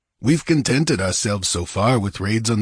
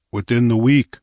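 certain; 3 semitones higher, 5 dB louder than usual. Acted. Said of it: "stared at the certainty in his voice".

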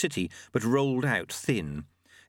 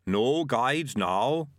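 bigfoot; 2 semitones higher, much slower than usual. Acted. Yeti speaks slowly.

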